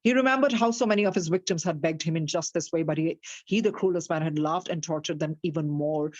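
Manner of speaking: slow, deliberate storybook reading; story narration. A narrator's reading. Teacher reads the story slowly to her class. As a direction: read it out slowly to the listeners.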